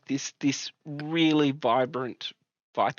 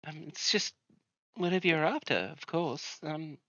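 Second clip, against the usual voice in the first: lightly voiced friendly healer, a bit higher; welcoming healer lady; 3 semitones higher than usual. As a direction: greet newcomers like a kind herbalist. GM voicing the herbalist.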